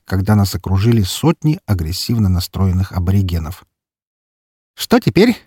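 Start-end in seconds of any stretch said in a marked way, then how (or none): 4.8-5.4 put-on high, bright cheerful girl voice. A narrator's reading. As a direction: ask it merrily, unbothered. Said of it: "весело спросила Фокси".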